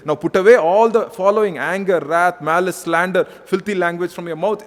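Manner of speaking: loud scripture reading. Acted. Reading scripture aloud in sermon.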